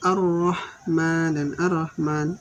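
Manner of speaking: first Ar-Rahman with doubled r, then Ar-Rahman without it; wrong and right Ar-Rahman. Shown as a demonstration. Teacher contrasting right and wrong readings, slow Ar-Rahman. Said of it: "salah fatal itu".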